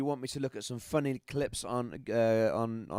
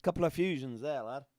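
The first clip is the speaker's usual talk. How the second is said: northern English accent. Shown as a demonstration. Streamer explaining his friend's back operation, in a northern accent. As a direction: talk in broad Yorkshire dialect. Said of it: "gonna do an accent, then it'll be a northern accent".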